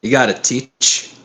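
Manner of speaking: slow, accidental slide into Brooklyn; a hint of Brooklyn, drawn out; Brooklyn accent. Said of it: "I did a Brooklyn accent again".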